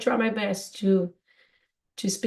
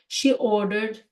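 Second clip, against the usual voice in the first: example sentence; slower than usual. Shown as a demonstration. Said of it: "in American English would be".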